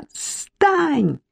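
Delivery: high furious cry. Acted. Irka clinging to Marik's sleeve, high furious cry. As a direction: shake with rage.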